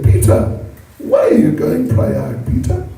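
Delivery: put-on high pleading child voice, rising at the end; little Krishna. Krishna questions his father about Prayag in a high child voice. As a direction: beg like a small boy who wants to know. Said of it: "And Krishna said".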